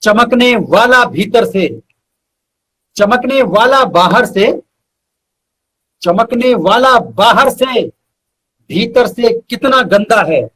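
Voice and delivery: measured shayari recital with weighty pauses; poetic recitation. Acted. Reciting his couplet to the host, measured and poetic. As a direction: lean into each line like a mushaira couplet.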